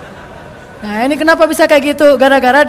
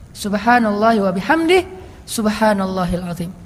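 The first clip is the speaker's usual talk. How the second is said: slow, lower dhikr recitation; 4 semitones lower than usual. Shown as a demonstration. Preacher to congregation, slow devout recitation.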